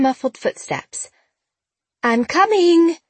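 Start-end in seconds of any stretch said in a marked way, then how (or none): 2.0-3.0 put-on high, calling old lady; thready old lady voice. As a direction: call out like a frail little old lady. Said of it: "called a thready little old lady voice".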